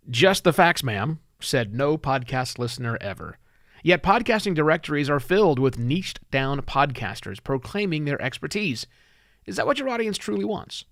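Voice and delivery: projected, deliberate cold-open delivery; scripted podcast read. Acted. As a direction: read it out as a punchy show intro. Rehearses the cold open aloud.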